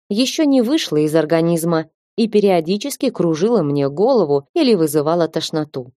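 ordinary delivery

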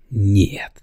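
breathy whispered no. Acted. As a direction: barely voice it. Smith answers quietly.

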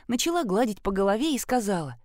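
usual speaking voice

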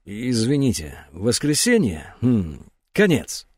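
slow, unsure answer; hesitant slow reply. Acted. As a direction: drag it out, searching. Hesitant word association.

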